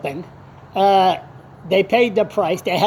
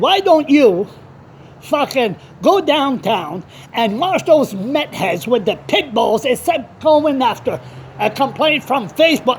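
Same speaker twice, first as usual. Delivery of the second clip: mad; 4 semitones higher than usual. Retold or imitated. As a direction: lay into them, pitched up and indignant. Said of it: "I was so mad when I heard it".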